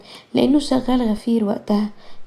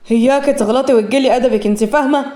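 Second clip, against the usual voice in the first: mildly heated threat, slightly louder; angry warning; 3 dB louder than usual. Acted. Mahran warning Zahra not to insult, mildly angry. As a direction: warn her with restrained anger. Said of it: "قالها مهران بعصبية".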